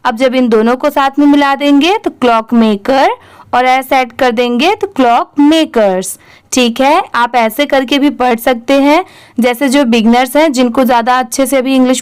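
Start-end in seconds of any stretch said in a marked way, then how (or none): 4.9-6.2 टुकड़ों में. Shown as a demonstration. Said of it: "कुछ पार्ट में डिवाइड करके".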